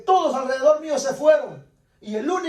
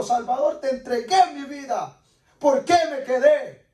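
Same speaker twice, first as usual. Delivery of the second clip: anguished protest. Retold or imitated. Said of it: "como niño rebelde". (protesta angustiada a Dios)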